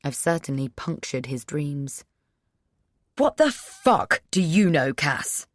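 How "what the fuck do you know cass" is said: put-on loud slurred drunk snapping; drunken snap. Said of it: "he snaps drunkenly".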